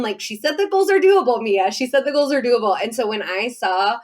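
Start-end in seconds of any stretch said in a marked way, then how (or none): 0.2-2.8 high, eager repeating to herself; excited self-pep. Retold or imitated. Guest repeating the host's promise to herself, excited and higher. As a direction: pump yourself up with it, pitched up.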